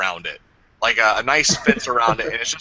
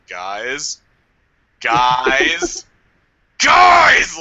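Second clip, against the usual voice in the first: calling for help; 5 dB louder, much slower than usual. Retold or imitated.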